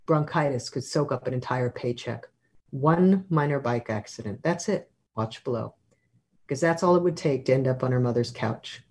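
measured literary reading aloud; story narration. A narrator's reading. Author reads a chapter to an audience, measured narration. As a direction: read it out like prose at a book reading.

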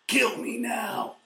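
slow, high, half-shouted misery; mock hungover groan. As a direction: drag it out like you're dying. Hungover self reacting.

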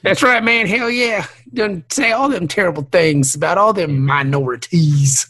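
put-on redneck Trump-supporter voice; hammed-up redneck impression; redneck character voice. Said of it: "as long as you do the voice".

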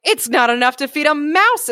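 a spoiled dog grumbling about its dinner; whiny dog voice. Acted. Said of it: "putting on my best whiny voice".

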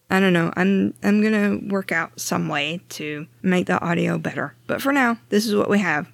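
muffled by a blanket over the head; under a blanket. Real, not acted. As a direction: speak from under a heavy blanket. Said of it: "Me sitting under a blanket".

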